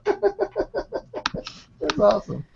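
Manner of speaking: real amused laugh into the words. Real, not acted. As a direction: let the laugh carry the words out slowly. Delighted by viewer's comment.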